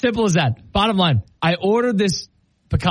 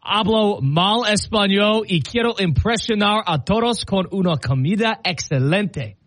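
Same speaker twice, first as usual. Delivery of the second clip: careful slow Spanish; 3 semitones higher than usual. Retold or imitated. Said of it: "I said".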